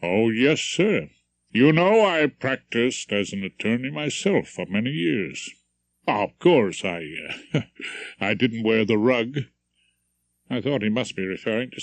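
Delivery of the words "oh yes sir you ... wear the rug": put-on faint transatlantic accent, friendly stranger; lightly American accent. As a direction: greet him with a touch of American accent. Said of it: "in a low, rumbling transatlantic accent".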